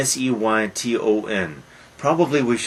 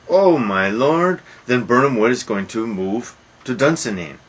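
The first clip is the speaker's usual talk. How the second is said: alarmed cry; 3 semitones higher, 4 dB louder than usual. Retold or imitated. Soldier's alarmed report voiced.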